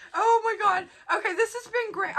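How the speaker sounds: high, laughing through the words. Real, not acted. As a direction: giggle through it, a bit teary. Laughing at herself.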